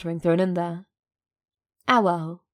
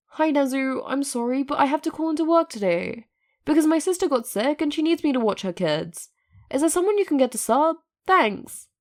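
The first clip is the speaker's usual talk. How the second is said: light Present Mic voice; 7 semitones higher than usual. A narrator's reading. Text written as Hisashi.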